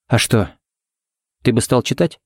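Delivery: composed, unhurried query; calm question. A narrator's reading. Seymour answers Ted with a question, calmly. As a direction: ask it evenly, unruffled. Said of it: "спокойно спросила Сеймур".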